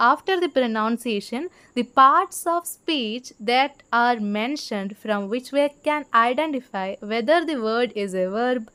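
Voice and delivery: slow, deliberate reading aloud to students; slow textbook reading. Shown as a demonstration. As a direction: read each word out slowly for the class. Reads English textbook line slowly. (പതുക്കെ പാഠപുസ്തകം വായിക്കുന്നു)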